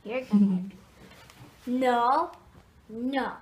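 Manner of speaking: loud sharp warning. Real, not acted. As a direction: stop him firmly. Stopping baby.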